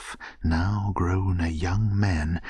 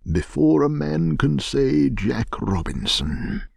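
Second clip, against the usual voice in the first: high, hearty raised call; merry cry; 8 semitones higher, 4 dB louder than usual. A narrator's reading. Old master hurrying apprentices with the shutters, jovial shout. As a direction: urge the boys on loudly and jovially. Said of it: "cried old Fezziwig".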